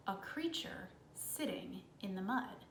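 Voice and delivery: unvoiced hush for the creature in the mud; whispered. A narrator's reading. Narrator whispering to children about a creature in the mud. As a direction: breathe it out as a secret.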